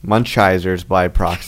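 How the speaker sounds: Munchizers said slowly, mangled; deliberate mispronunciation. Pretend. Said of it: "Mun-, Munch, Munch".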